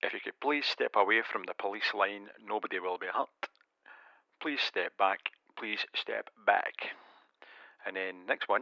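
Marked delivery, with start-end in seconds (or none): 0.0-6.7 synthetic, robotic speaking voice. Showing a series of character voices, this one a robot; robot voice. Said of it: "And then we've got Robot".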